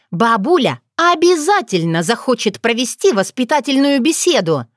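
proud, cocky threat; nose up, dare them; defiant young woman. Acted. Otrada taunting her captors, defiant.

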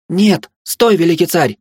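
piercing high desperate shriek; inhuman scream. Acted. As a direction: scream it in an unearthly voice. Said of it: "закричала нечеловеческим голосом". (нечеловеческий крик)

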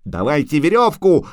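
high, urgent shout for help; yelling. A narrator's reading. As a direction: yell out a frantic demand. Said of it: "орал Лютик".

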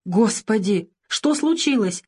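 scared woman on the phone; frightened exclamation. A narrator's reading. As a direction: gasp out in fear. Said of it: "со страхом воскликнула она".

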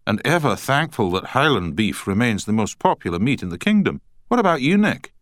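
put-on broad Scottish accent, rising high; hearty Scotsman asking a friend. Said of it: "in a strong Scottish accent".

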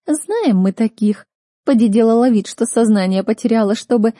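sarcastic snorting mock pity; scornful snort. Chloe's continuing sneer.

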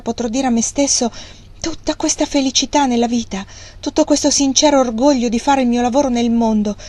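hushed, passionate declaration; a mild, understated tremor of tender passion; tenderly intense. Acted. Thornton confessing to Margaret, tenderly intense. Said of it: "abbassando il tono di voce fino a raggiungere una passionalità così teneramente intensa".

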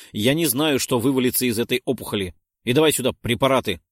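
loud commanding shout; urgent orders. Acted. Narrator shouts urgent orders to Willis.

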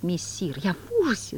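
hammed-up wail of horror; howled mock horror. The cat pretending horror to Woland, hammed-up howl. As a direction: fake terror, overplayed. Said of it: "завыл кот, изображая ужас".

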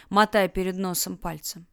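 plain reading voice

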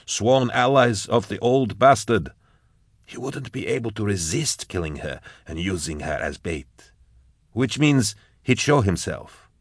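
measured, deliberate accuser's voice; accusing Enschibel. Acted. Enschibel accusing Eisenhorn of using a daughter as bait, deliberately.

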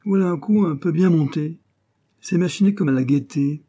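high, eager admiration; gripped, excited. A narrator's reading. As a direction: exclaim with delight at a clever scheme. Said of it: "évidemment empoigné".

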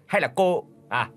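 high, fast accusing questions; spiteful interrogation. Acted. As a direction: grill her with bitter suspicion. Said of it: "hằn học hỏi vặn lại". (mẹ chồng hằn học tra hỏi con dâu, giọng cao)

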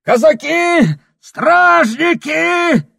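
очень высоко и громко, протяжно; зови на помощь из окна; крик в окно. Acted. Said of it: "кричит". (Прохор кричит в окно, зовя стражу)

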